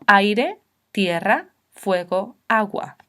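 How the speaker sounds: "aire, tierra, fuego, agua" word by word, each diphthong in one syllable; vowels joined. Shown as a demonstration. Teacher showing diphthongs in one stroke of voice, vowels joined. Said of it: "un golpe de voz".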